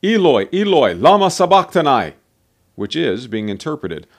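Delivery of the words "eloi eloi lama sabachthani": high, loud cry of anguish. A narrator's reading. Jesus on the cross calls to God, crying out loudly. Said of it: "cried out with a loud voice".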